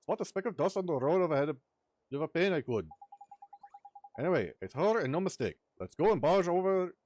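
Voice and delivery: excitable Welsh sidekick, loud and high; chirpy fairy scolding his mate. Acted. Voices Drippy in game dialogue.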